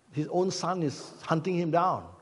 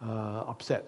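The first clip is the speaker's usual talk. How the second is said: slow self-questioning; 3 semitones lower, 4 dB quieter, slower than usual. Retold or imitated. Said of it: "I located it why".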